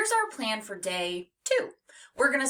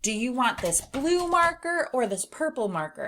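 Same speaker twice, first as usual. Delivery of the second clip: asking a choice; 6 semitones higher, 3 dB louder than usual. Retold or imitated. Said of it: "Like if someone's like".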